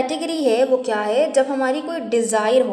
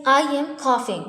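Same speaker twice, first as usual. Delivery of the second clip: slow, carefully spaced words; slow model sentence; much slower than usual. Shown as a demonstration. Teacher demonstrates the English sentence, slow and deliberate. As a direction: say it slowly so learners can copy. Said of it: "मुझे खांसी आ रही है".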